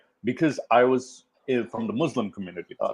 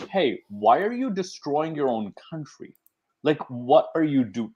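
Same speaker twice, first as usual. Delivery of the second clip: mildly exasperated, higher-pitched plea; incredulous challenge; 4 semitones higher than usual. Retold or imitated. Muslims thinking about rioters at home, incredulous. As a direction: question them in mild disbelief. Acting out Muslims' dismayed reaction.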